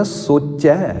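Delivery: ਸੋਚਿਆ said so, with a hora on the sassa; ਸੋਚਿਆ said sochia, not sochia without the o sound; ਸੋਚਿਆ with clear o. Shown as a demonstration. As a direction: slowly say ਸੋਚਿਆ as so-chia. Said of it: "ਸੱਸੇ ਉੱਤੇ ਹੋੜਾ ਆ".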